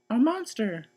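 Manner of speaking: high, loud scared cry; frightened shout. Acted. Baby sees a snout at her window: frightened high shout. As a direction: scream out in fright. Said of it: "shouted Baby".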